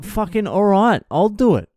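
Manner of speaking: high, swooping grudging agreement; exasperated. Retold or imitated. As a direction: act out fed-up volunteering. Exasperated, volunteers to jump gate.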